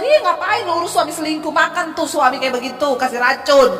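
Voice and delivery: hammed-up gossip; mock gossipy friend. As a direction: scoff like a bad friend egging her on. Mock bad counselor advice.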